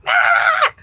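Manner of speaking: imitated scream from a young student; short, harsh "ah" mimicking a screamer; mock scream. Teacher imitating her screamer student at the first class, mock scream. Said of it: "screaming and screaming at her parents".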